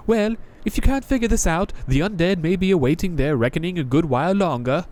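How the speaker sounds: a jaded knight greeting a newcomer; Crestfallen Knight voice. Acted. Knight taunts.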